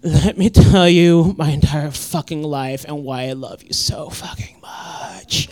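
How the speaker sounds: low, slow, breathy-hushed gushing; mock gushing raver. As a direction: pour your heart out like someone rolling on ecstasy. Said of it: "it's just like".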